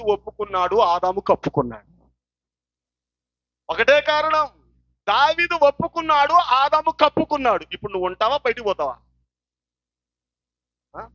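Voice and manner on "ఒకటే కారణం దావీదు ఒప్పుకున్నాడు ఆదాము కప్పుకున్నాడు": forceful sermon declaration; emphatic preaching. Real, not acted. Preacher repeating his key point to the congregation, emphatic preaching. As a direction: drive the point home to the congregation.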